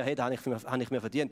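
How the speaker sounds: a touch of smug entitlement, as if claiming a reward; mock self-satisfied "Hey, das habe ich mir verdient"; entitled attitude. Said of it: "oder eher". (leicht selbstgefällig, anspruchsvoll)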